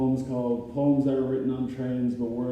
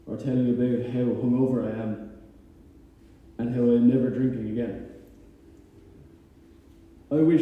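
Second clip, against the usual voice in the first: measured spoken-word recitation with pauses between lines; each wish set apart by a pause; poem reading; 4 dB louder than usual. Acted. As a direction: read it as a heartfelt poem to a lost friend. Reads own poem aloud.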